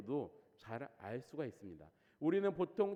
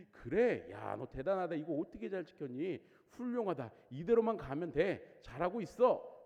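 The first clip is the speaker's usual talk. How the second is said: louder, cheery pat on the back; hearty praise; 4 dB louder than usual. Pretend. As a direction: cheer him on like a proud mentor. Imagined praise for the young man.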